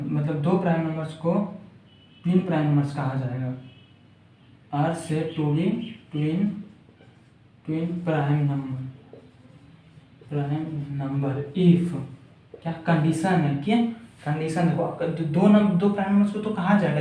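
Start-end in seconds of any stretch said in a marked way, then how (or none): 4.7-12.0 dictating word by word with long pauses; slow dictation. Real, not acted. Teacher writing out the definition for students, slow dictation. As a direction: spell out the sentence slowly, piece by piece.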